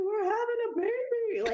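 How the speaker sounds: high, excited, laughing through it; laughing announcement. Retold or imitated. Telling husband Jeremy about the baby, laughing and high. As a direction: burst out with the news. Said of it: "I was like".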